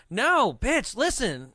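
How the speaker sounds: high, emphatic interruption; mock exasperation. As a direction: cut in like you're finally fed up. Retelling exasperated confession.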